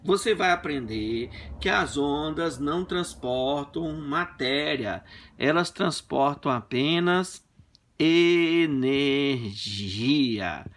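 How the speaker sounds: slow, drawn-out teasing lecture; lecturing wife. Retold or imitated. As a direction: spell it out to her slowly. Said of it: "Eu falei". (dando lição à esposa, devagar)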